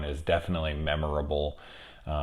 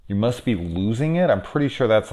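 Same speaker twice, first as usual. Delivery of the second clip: higher, incredulous echo of a quote; mocking disbelief; 5 semitones higher, 4 dB louder than usual. Reviewer answering the movie character, mocking disbelief. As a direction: throw it back as an incredulous question.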